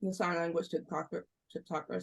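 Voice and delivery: talking around a mint in mouth; words blurred by a mint in mouth. Real, not acted. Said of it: "Sorry, I have a mint in my mouth".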